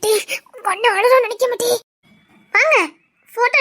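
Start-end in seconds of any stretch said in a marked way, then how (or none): 0.0-1.7 crying. Acted. Grieving brother at wedding.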